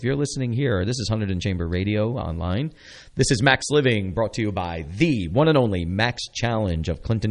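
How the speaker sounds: bright, upbeat radio host pitch; radio announcer read. Acted. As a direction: sell it like a local station promo.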